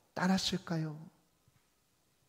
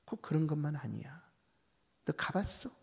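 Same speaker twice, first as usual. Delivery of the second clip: devil whispering doubt; 4 dB quieter than usual. Acted. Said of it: "사단 마귀의 유혹들이".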